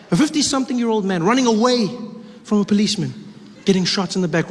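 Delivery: ordinary talk, nothing marked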